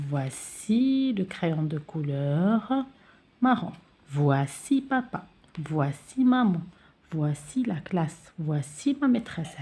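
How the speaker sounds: put-on slow, clear example sentences for children; slow model sentences. Shown as a demonstration. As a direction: spell it out gently for young pupils. (جمل نموذجية ببطء للأطفال)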